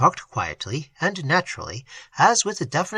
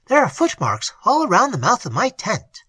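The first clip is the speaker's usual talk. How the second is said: higher and louder, eager; excited; 6 semitones higher, 3 dB louder than usual. A narrator's reading. Sangre rushes in to tell of footmarks, excited. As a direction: burst in with the news. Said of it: "he said with excitement".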